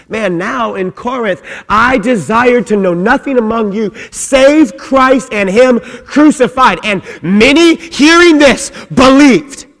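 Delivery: loud, high, driving preacher's call; full-force preaching. Real, not acted. Preacher rallying the congregation, loud and high. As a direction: preach it out with fire.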